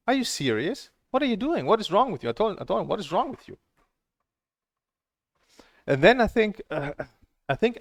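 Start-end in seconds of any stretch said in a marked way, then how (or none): 0.1-3.6 high, incredulous outburst; pitched-up exasperation; outraged disbelief. Real, not acted. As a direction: fire the questions in disbelief. Outraged questions to instructor.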